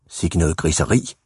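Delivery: low, understated grumbling; mildly cross, pitched low in disapproval; grumpy old lady. A narrator's reading. Old lady grumbles at the drawing on the wall, mildly cross. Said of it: "Hun så vred og gnaven ud".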